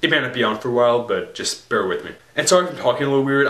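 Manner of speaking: talking through a sore throat. Real, not acted. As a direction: speak with a raw, sore throat. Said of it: "I have, like, a sore throat".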